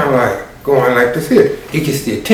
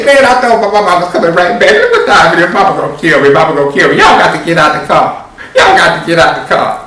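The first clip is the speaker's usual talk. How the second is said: a touch of laughing panic, a bit louder; nervous panic; 3 semitones higher, 3 dB louder, faster than usual. Acted. Marquette fearing his mama, mild laughing panic.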